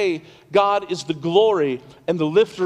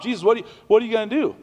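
mock panicked plea; 4 semitones higher, much faster than usual. Panicked disciples wake Jesus.

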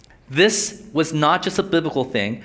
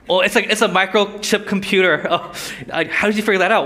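mock amazement; 4 semitones higher than usual. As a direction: play the wide-eyed discoverer, overdone. Mock first-century reader discovering answer.

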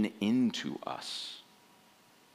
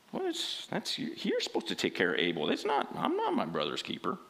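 accusing; 3 semitones higher than usual. Acted. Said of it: "responds with accusation".

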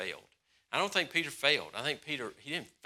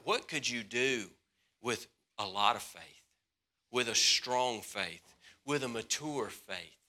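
gentle Jesus; 3 semitones lower, 5 dB quieter than usual. Retold or imitated. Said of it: "what he was saying".

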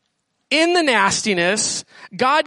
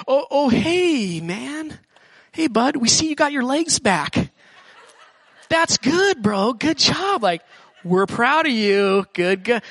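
a light mock of a friendly bro; buddy congratulating; slower than usual. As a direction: cheer him on like a laid-back bro.

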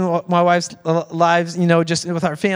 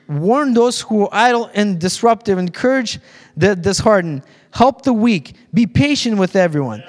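scripture reading. Acted. Reads scripture to congregation.

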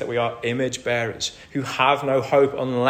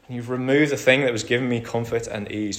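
weary despair. Retold or imitated. Jonah voiced despairing, wanting death.

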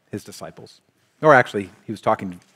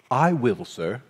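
a mildly polite, obedient answer; nice and respectful; slower than usual. Retold or imitated. Son answering his father's order, nicely and respectfully. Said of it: "says it very nicely, too, respectfully".

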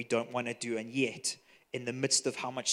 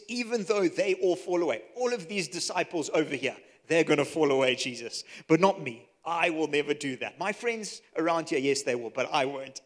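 boastful Peter; 2 semitones higher, 5 dB louder than usual. Retold or imitated. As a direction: brag that the others will fail but not you. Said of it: "So, uh, he says".

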